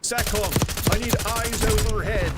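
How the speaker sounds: loud, high mock Aussie-English soldier; hammed-up Aussie-English radio call; put-on Aussie-English accent. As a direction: imitate a game operator in an Aussie-English accent.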